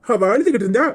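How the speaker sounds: heated self-defence; angry rebuke. Acted. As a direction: shut down the accusation sharply. Rebuking an accusation in a quarrel.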